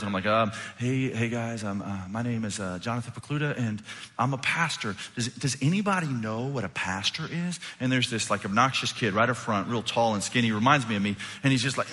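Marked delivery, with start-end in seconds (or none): 0.8-4.9 hesitant, fumbling self-introduction; nervous stumbling. Retold or imitated. Pastor introducing himself to third graders, nervous. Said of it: "I really am nervous". 5.1-7.6 tentative question with a stuttered start; nervous stumbling. Retold or imitated. Pastor asking a class of children, nervous. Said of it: "kinda stumbling over my words".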